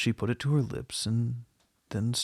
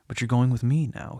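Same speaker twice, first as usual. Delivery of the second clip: louder, insistent claim; firm affirmation; 7 dB louder than usual. A narrator's reading. Man insisting the nun leave with him, loudly affirming. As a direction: affirm it forcefully, brooking no doubt. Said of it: "he affirmed".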